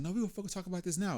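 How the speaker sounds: mimicking her, pitched well up; insistent girlfriend. Man imitating his girlfriend in an argument, insistent. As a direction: imitate a partner who will not drop it.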